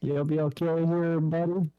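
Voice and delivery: muffled voice. Real, not acted. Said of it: "Why do you sound muffled".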